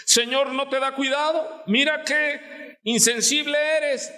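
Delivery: high, scolding complaint to the Lord; scolding Martha. Retold or imitated. Martha scolding Jesus for not caring, in a high nagging voice. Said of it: "Regañando a Jesús".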